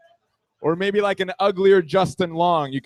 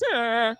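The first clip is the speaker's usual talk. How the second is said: higher drawn-out mock moan; demonstrated sex noise; 5 semitones higher than usual. Shown as a demonstration. Showing his noises during sex, mock moan. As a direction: let out a comic moan. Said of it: "the noises I make during sex".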